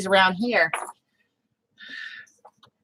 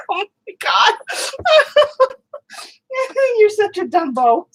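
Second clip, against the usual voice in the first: laughing; 6 semitones higher than usual. Real, not acted. Still laughing at the dog.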